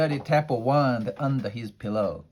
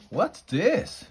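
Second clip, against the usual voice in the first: much higher, piercing queen's shriek; a high startled queen's shriek; 10 semitones higher than usual. Acted. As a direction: shriek it out in outrage. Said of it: "she shrieked".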